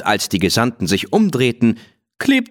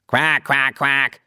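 higher, playful duck "Quack, quack, quack"; repeated quacking; 4 semitones higher, slower than usual. A narrator's reading. Willi mocking the sheikh with higher playful quacks.

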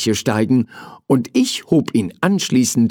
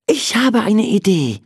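high-pitched, eager announcement; bright idea; 10 semitones higher than usual. Acted. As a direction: announce it like a child with a sudden idea. (aufgeregt, mit hoher Stimme)

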